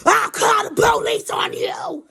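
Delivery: high, slow mock shriek; child snapping. Girl threatening the driver, imitated screech. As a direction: screech an acted threat, drawn out. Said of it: "So she's snapping".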